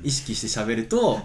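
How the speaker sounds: slow, deliberate. Shown as a demonstration. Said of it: "こうやって".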